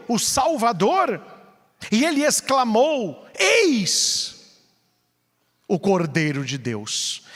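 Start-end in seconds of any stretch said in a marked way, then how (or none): 3.4-7.3 awed exclamation. Acted. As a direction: proclaim it in awe. Johannes ruft den Erlöser aus.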